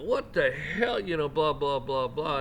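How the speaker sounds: a hammed-up road-rage yelp; angry outburst. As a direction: blurt it out like a startled, irritated driver. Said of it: "you might get out and go".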